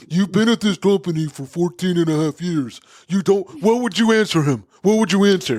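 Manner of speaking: mock forceful, hard-pressing, insistent delivery. Retelling how a man at work slammed his table and pressed him: imitating a table-slamming outburst. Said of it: "he like slams his table or whatever".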